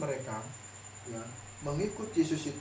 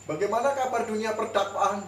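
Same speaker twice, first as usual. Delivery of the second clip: prodding question; 5 semitones higher, 4 dB louder than usual. Retold or imitated. Memancing rekan yang diam.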